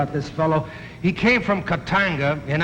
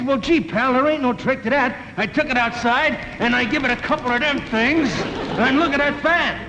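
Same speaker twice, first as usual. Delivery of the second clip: tough guy, higher; 6 semitones higher than usual. Retold or imitated. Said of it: "The guy says".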